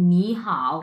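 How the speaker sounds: "নি হাও" with rising "নি", low dipping "হাও"; tone change demo. Shown as a demonstration. Teacher modelling both words together, "নি" rising, "হাও" dipping. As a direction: say "নি হাও" as second tone then third tone. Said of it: "এইভাবে, হ্যাঁ".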